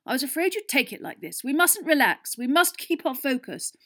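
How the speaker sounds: high, loud, frantic team rant; rally them with fanatical urgency; shouting. A narrator's reading. Captain urging his team not to relax, shouting. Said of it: "Wood shouted, his eyes bulging slightly".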